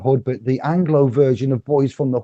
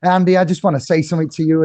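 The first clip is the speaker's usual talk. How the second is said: badly mimicked accent, higher voice; Field McConnell; 5 semitones higher, 3 dB louder, faster than usual. Imitating a man addressing Andy, terrible mock accent. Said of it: "for the terrible accent".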